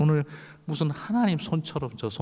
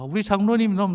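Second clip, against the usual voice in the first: high and louder, pleading; anguished complaint; 10 semitones higher, 5 dB louder than usual. Retold or imitated. Pastor crying out to God for the elder, high and loud. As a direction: push out the elder's pain to God. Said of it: "목사같이 기도하고 싶지가 않더라고요".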